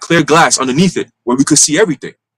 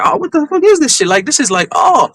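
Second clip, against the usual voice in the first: a much higher, squeaky indignant cry; mock baby outrage; 10 semitones higher than usual. Preacher voicing a newborn baby's shock, high mock outrage. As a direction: play the newborn shocked at its body.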